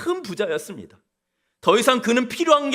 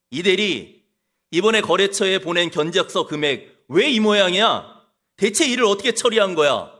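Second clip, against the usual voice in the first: blaming boss. Pretend. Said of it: "이렇게 남 탓합니다".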